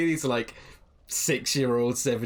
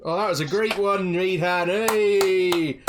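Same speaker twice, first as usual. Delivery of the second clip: higher, louder happy cheer; cheerful praise; 8 semitones higher, 6 dB louder, slower than usual. Acted. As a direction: applaud him warmly and loud. Praising after song.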